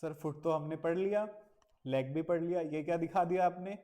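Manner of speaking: teacher acting a puzzled student asking sir; voicing a pupil. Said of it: "teacher voicing a pupil".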